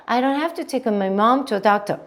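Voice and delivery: "mom" and "doctor" clearly accented; slow phrase with emphasis on "mom" and "doctor"; stressed key words. Shown as a demonstration. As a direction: put the beats on "mom" and "doctor". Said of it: "강세 보이세요".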